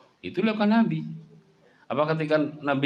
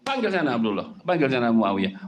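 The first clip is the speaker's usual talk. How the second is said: mock scolding; 4 dB louder than usual. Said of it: "Nanti membentak kan?".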